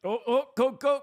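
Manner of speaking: high excited yelling; excited shouting. Real, not acted. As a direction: yell at the screen. Watching overtime chance.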